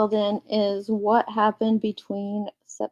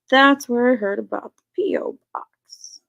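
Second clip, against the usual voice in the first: whispered aside. Real, not acted. Reading chat under breath.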